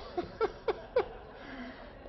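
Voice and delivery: high unvoiced laugh at himself; sheepish laugh; embarrassed breathy laugh. Real, not acted. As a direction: laugh off the blunder. Embarrassed laugh at own blunder.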